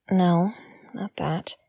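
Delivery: hushed, slow whisper to herself; whispered self-correction. Acted. Podcaster corrects herself under her breath, whispering. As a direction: catch herself and whisper the retraction.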